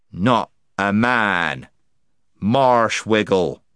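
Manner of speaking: slow, slurred tipsy correction; indistinct voice. Acted. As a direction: mumble it, a little drunk. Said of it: "in a somewhat indistinct voice".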